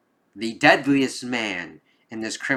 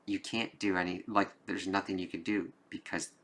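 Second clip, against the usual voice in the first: retold whisper; 8 dB quieter than usual. Father hugging his son, murmuring softly. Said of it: "whispering that into his ear".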